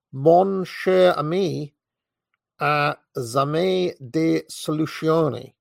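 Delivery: put-on slow, lilting Italian accent. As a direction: savour each word in an Italian accent. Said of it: "in that Italian accent he so carefully cultivated".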